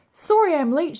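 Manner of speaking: breathless apology after rushing; hurried, panting; out of breath. Acted. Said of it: "was out of breath".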